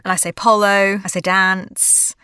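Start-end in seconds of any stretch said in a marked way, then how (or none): 0.3-1.0 "polo" with Australian o vowels. Shown as a demonstration. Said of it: "my vowels are still very Australian". 1.2-2.1 "dance" with a short, drawn-out Australian a; slow Aussie "dance"; Australian vowel. Shown as a demonstration. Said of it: "my vowels are still very Australian".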